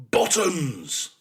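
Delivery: high, loud, falling bellow; bawling. A narrator's reading. Exasperated father drumming errand into son, bawling. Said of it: "he bawled".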